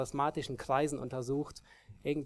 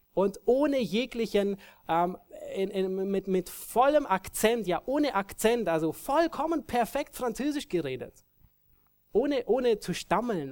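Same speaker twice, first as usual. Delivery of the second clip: excited emphasis; 6 semitones higher, 4 dB louder than usual. Real, not acted. Marvelling at perfect French.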